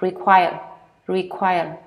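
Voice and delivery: REQUIRE ending with the tongue curled up a little. Shown as a demonstration. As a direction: lift the tongue at the end of REQUIRE. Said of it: "You put your tongue up a little bit".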